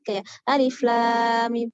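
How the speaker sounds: alif lam mim drawn out slowly; slow recitation example. Shown as a demonstration. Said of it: "tapi langsung dibaca alif". (baca alif lam mim pelan sebagai nama huruf)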